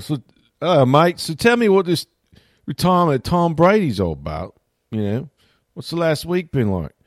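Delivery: playing the Aussie radio host, in an Australian accent; Australian host impression. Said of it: "I can't do Australian accents".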